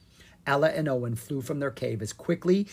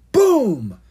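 higher, louder narrated explosion; loud boom; 9 semitones higher, 11 dB louder than usual. A narrator's reading. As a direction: burst out the sound of the blast. Cake explodes.

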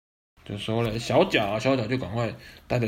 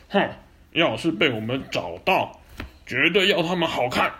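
angry; 5 semitones higher, 4 dB louder than usual. Acted. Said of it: "很生气".

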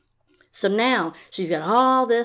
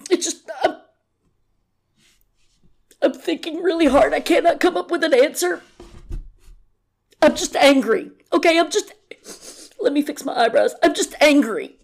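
much higher, louder put-on voice, mock-fake anger; mocking Robin; 9 semitones higher, 4 dB louder than usual. Vlogger parodying Robin stalling in an interview, high mocking voice. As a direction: ham up her strained interview answer. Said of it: "she'd be like".

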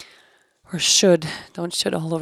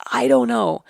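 inner voice; 5 semitones higher, 6 dB louder than usual. Retold or imitated. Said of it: "Just this".

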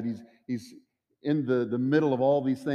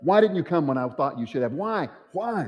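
pleading cry; 3 semitones higher than usual. Acted. Believer crying out to the Lord.

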